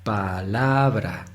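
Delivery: PALABRA said slowly, syllable by syllable; split into syllables. Shown as a demonstration. Teacher showing pupils how to separate syllables, syllable by syllable. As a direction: break palabra into pa, la, bra. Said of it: "para separar palabra".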